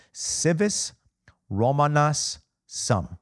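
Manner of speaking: slow Latin said in an English accent. Shown as a demonstration. Preacher quoting the Latin phrase in an English accent. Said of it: "the best I can do with my English accent".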